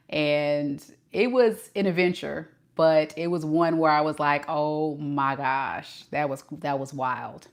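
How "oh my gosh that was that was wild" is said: slow, hushed retold amazement; understated disbelief. Recalling the wild road trip, quiet mock-stunned aside. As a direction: draw out the first words, then drop away softly.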